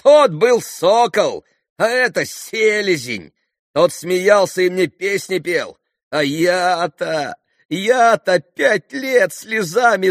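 high, slow, loud lament; anguished self-reproach. A narrator's reading. Grushenka laments five years of tears, anguished self-reproach. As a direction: curse yourself in drawn-out anguish. Heroine bitterly reproaches herself.

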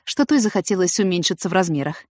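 ordinary delivery, nothing marked

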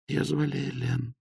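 тихо и высоко, но ясно выговаривая; слабый голос раненой, каждое слово чётко; слабо, но отчётливо. A narrator's reading. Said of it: "Голос девушки звучал слабо, но отчётливо". (тихий, но ясный голос раненой)

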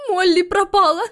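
high, loud, near tears; mother telling Calista the little one is gone, high and distraught. A narrator's reading. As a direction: tell her the awful news.

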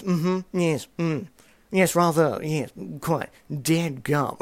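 hammed-up upper-class British toff voice; haughty British accent. Son imitating posh British tea chat with his mum. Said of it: "we put on these really haughty British accents".

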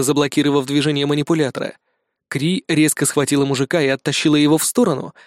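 plain reading voice

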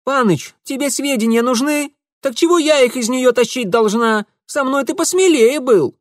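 high, loud reproach; indignant village girl. Acted. Darinka reproaching Mitya, high and loud.

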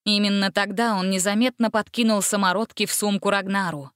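usual speaking voice

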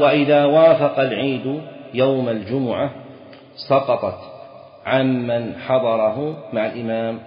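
measured text reading; reading the text aloud. Shown as a demonstration. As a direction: read it out slowly to students.

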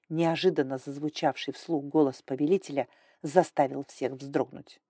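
usual speaking voice

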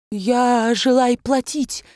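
high, slow pitiful plea; plaintive. A narrator's reading. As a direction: sound sorry for yourself. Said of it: "жалостно сказал барон". (жалобно, медленно)

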